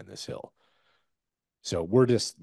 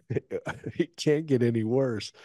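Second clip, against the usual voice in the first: higher, drawn-out, with a laugh breaking in; retold laughing disbelief; 8 semitones higher, 4 dB louder, slower than usual. Soldier behind a rock pile recalling his reaction, laughing in disbelief. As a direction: say it slowly through a mock helpless laugh. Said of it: "I remember laughing, you know, being like".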